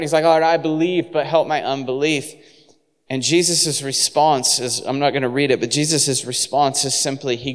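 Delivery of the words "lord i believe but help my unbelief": mildly desperate, pitch a little raised; a touch of urgent pleading; desperate plea. Acted. Father asking Jesus to help his unbelief, mildly desperate. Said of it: "he's desperate".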